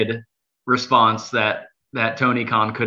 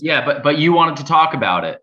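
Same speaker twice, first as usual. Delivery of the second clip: slightly raised, higher voice; mild yelling; 4 semitones higher than usual. Real, not acted. Co-host pressing the host to discuss it, mildly yelling. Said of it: "please stop yelling at us".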